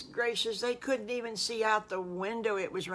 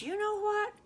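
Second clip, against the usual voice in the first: Mister Farmer Brown; slower than usual. Acted. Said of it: "Mister Farmer Brown says".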